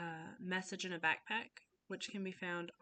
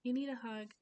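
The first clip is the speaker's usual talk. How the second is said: higher, gentle invitation; comforting; 4 semitones higher than usual. Shown as a demonstration. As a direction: coax a child in for a hug. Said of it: "just being for them sometimes".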